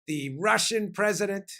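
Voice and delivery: lightly imitated Italian accent, slow and deliberate; slow, measured mock Italian accent; teacher's Italian accent. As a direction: quote an old history teacher with a hint of Italian accent. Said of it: "with that Italian accent of his".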